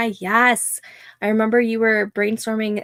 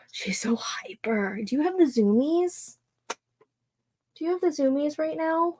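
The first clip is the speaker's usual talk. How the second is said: unvoiced whisper to the dog; 6 semitones higher, 4 dB quieter than usual. Real, not acted. To the hyper dog at night, whispered. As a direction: breathe it at the hyper puppy.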